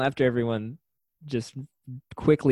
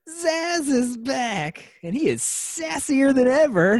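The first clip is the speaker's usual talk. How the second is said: high, slow, campy sass; sassy voice; 10 semitones higher, slower than usual. Acted. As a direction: ham it up, sassy and camp. Sassy Zsasz voice.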